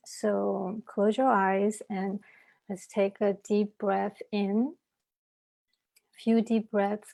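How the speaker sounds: measured meditation voice with long pauses; unhurried breathing guidance, leaving space after each instruction; guided meditation. Acted.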